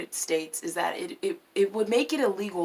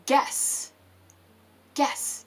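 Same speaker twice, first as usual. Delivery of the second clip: teasing whisper; 6 semitones higher than usual. Acted. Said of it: "guess what happens".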